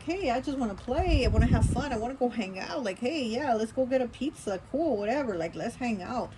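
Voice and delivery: a hint of playful, let's-have-fun lilt; carefree air energy. Voicing the air-energy person who wants fun, carefree. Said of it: "that air energy being like".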